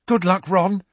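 high, loud, warm farewell; Hermione voice. A narrator's reading. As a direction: wish him luck brightly. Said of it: "said Hermione".

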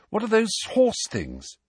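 high, pressing question; insistent question. Acted. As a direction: push the question, impatient. Harry presses Ron, Ron baffled.

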